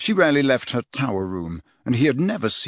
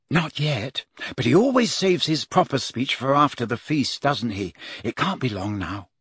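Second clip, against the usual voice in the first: lightly voiced girl, raised pitch at first; Hermione, explaining; 2 semitones higher than usual. Hermione tells Harry the speech is coming, matter-of-fact.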